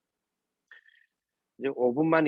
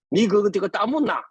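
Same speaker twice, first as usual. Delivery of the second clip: higher-pitched challenge, lightly acted; mock accusing question; 5 semitones higher, 3 dB louder than usual. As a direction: pounce on it as a pointed question. Acts God questioning Adam's excuse.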